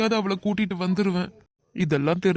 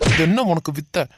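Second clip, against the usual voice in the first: angry loud scolding; 4 dB louder than usual. Acted. Rescuer scolds while beating.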